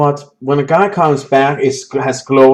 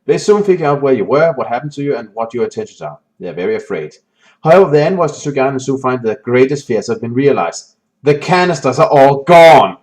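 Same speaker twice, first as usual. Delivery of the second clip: story narration. A narrator's reading. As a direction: build the dread as you read. Reading the game's story text.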